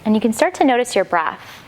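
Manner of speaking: calm, unhurried instruction with long pauses; guided yoga meditation. Acted. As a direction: gently guide them inward, leaving space between phrases. Leads settling into meditation.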